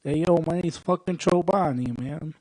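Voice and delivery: light tough-guy movie gangster voice; lightly put-on wiseguy swagger; Joe Pesci impression. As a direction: introduce yourself like a mob-movie wiseguy. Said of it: "pretend I'm Joe Pesci for a second".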